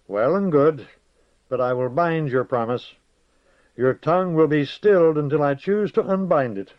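witch aunt. Acted. The witch binds his promise.

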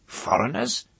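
put-on high, hoarse old-woman question. A narrator's reading.

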